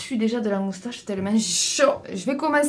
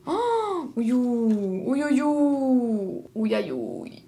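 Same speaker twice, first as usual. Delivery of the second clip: gémissement de dépit; much slower than usual. Real, not acted. Découvre les fards brisés.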